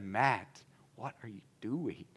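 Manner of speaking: voice of God. Retold or imitated. God stops him mid-yell.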